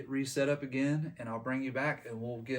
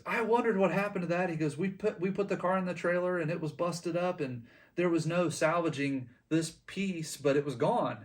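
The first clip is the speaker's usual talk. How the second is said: higher, a hint of a surprised car owner; lightly voiced owner; 5 semitones higher than usual. Show owner telling the kid where the piece went, lightly voiced and higher. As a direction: tell it like a bemused show owner, pitched up.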